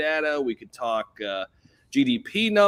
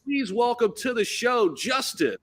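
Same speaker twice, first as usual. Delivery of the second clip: broadcast announcer intro; 4 semitones higher than usual. Shown as a demonstration. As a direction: introduce the guest like a stadium host. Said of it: "your intro from your broadcasting days".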